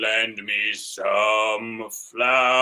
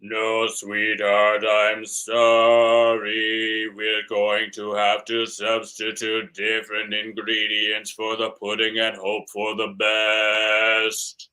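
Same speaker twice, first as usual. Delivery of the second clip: tender husband. Acted. Husband slow tender reply.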